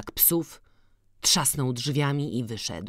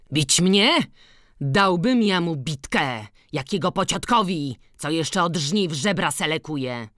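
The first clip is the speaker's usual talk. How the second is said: exclaimed; 3 semitones higher than usual. Acted. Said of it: "wykrzyknął".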